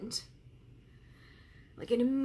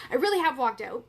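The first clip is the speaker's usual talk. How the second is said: real tears, louder and forced out; crying through it; 2 semitones higher, 8 dB louder than usual. Real, not acted. Coach telling her viewers she survived, through real tears. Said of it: "Even though I'm crying".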